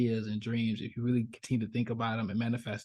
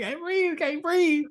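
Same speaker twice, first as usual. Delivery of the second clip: high, strangled can't-breathe cry; mock drowning panic; panicked gasp; much slower than usual. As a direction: choke it out like you're drowning. Boy held underwater in story.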